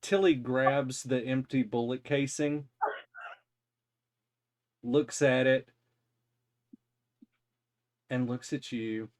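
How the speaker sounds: hushed storyteller whisper; whispered narration. A narrator's reading.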